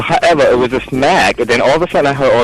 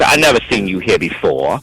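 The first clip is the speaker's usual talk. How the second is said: lower, measured questioning; a hint of a stern officer; lightly imitated cop; 4 semitones lower than usual. Cop sizing up a newcomer, lightly stern. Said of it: "He talked to me just like that".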